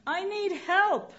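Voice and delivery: slow, high desperate cry for help; yelled plea. Retold or imitated. Man dangling from a branch calls upward for help, high and slow. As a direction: call up the cliff, stretching each word. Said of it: "the Unitarian Universalist yells up".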